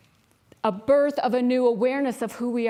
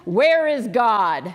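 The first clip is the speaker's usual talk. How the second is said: put-on loom over a small boy and boom it; a booming preacher demanding an answer; 5 dB louder, much slower than usual. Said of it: "this big man with this booming voice".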